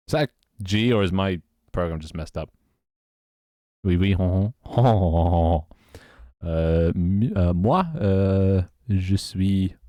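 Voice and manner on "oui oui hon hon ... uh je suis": cliché Frenchman. Shown as a demonstration. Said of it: "quite good at doing the French accent".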